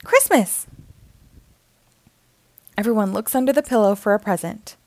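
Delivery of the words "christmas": high, louder Christmas call; excited yell. Acted. Bluey as Santa waking everyone, excited yell. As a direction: wake them with a big shout. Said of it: "Bluey yells".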